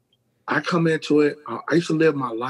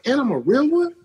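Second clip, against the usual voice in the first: high disbelieving question; high, playful disbelief; incredulous squeak; 3 dB louder than usual. Retold or imitated.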